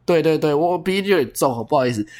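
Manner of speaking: talking with a blocked nose; stuffy nose from a cold. Real, not acted.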